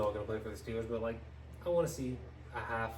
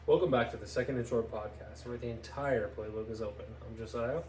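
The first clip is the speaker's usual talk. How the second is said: announcer voice. Shown as a demonstration. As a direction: say it with your chest. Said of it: "In an announcer voice".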